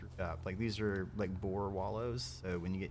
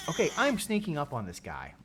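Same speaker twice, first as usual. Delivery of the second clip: French accent; 6 semitones higher, 5 dB louder than usual. Shown as a demonstration. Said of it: "The last time I tried an accent".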